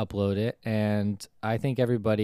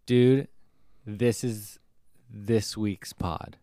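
big Dude, then slow with pauses; dramatic reveal, drawn out and slow; excited announcement; slower than usual. Retold or imitated. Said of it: "As from you being excited".

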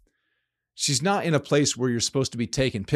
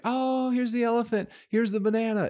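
put-on high, airy girly voice; high mock voice of the tourist girl; 10 semitones higher than usual. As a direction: play her as a clueless tourist. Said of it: "And she's like".

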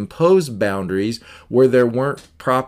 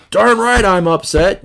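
higher, louder indignant retort; defensive angry neighbor; angry outburst; 8 semitones higher, 5 dB louder than usual. Acted. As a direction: snap back like an offended neighbor. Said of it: "they go off on their tangent".

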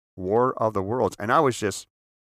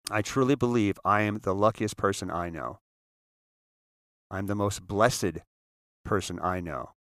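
slowed down. Shown as a demonstration. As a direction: take it slow and measured. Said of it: "and I'm gonna slow down".

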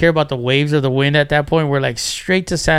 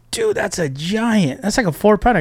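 impressed amazement; 5 semitones higher than usual. Retold or imitated. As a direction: imitate a buddy marveling at a catch. Buddy reacts to the huge fish.

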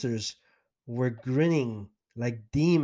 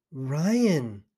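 concerned. Retold or imitated. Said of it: "she said with a concerned look".

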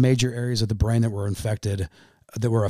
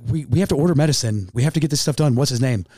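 higher, insistent nurse imitation; retold urgency; 3 semitones higher, 4 dB louder than usual. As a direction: press for it, as if quoting an urgent nurse. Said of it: "under a sense of urgency".

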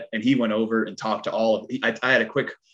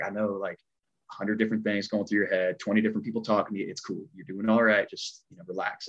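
softer, settling reassurance; retold calm reassurance; 5 dB quieter than usual. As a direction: quietly talk a nervous newcomer down, as retold. Coach calming a nervous performer.

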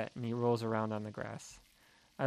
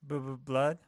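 stammering. Acted. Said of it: "I stammered".

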